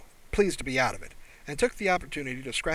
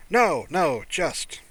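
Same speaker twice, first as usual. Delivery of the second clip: amazed; 3 semitones higher, 4 dB louder, slower than usual. Acted. Human marvelling at clean teeth.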